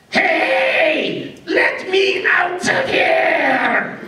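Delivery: high, slow shout from inside the box; trapped voice shouting. Acted. Crystal skull shouts at Anna to be let out. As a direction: yell to be let out, dragging the words. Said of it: "and the voice says".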